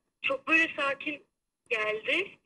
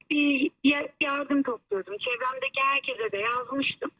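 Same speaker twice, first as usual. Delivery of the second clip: over the phone. Real, not acted. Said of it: "hoparlöre aldım seni".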